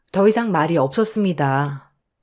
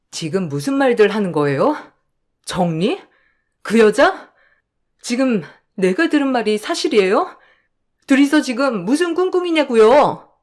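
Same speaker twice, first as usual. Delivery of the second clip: shocked wife; 4 semitones higher than usual. Acted. Wife confronting husband and mother-in-law, rising outrage. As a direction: confront them in growing outrage.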